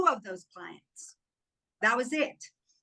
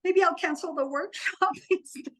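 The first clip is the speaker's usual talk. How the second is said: tempted half-joke; 8 semitones higher than usual. Retold or imitated. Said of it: "there was a moment where".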